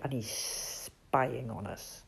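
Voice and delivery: low, slow and soft; hushed warning. Acted. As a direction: confide it gravely, under your voice. Owl warns of the snake.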